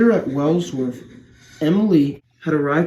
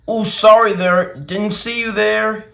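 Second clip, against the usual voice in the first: calling out; 7 semitones higher, 3 dB louder than usual. Acted. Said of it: "he called".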